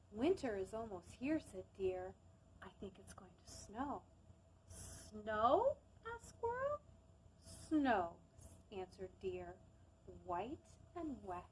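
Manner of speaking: gentle storybook narration; calm storytime reading; reading a story aloud. Acted.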